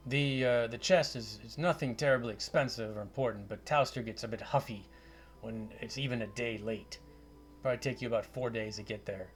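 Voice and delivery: hint of a Scottish wizard; Scottish accent. Wizard offers gold for delivering the chest, light Scottish accent. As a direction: haggle in lightly Scottish tones. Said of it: "a Scottish accent".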